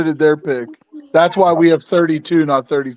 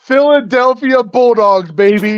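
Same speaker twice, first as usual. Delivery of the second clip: draft announcer; 7 semitones higher than usual. Pretend. Announcing a draft pick mock-style.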